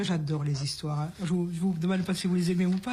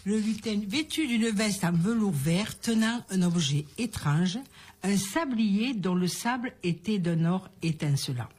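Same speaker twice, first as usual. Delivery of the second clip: measured storyteller's reading with pauses; story narration; slower than usual. A narrator's reading. Woman telling listeners a little birthday story, storytelling. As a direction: read it as a fairy tale.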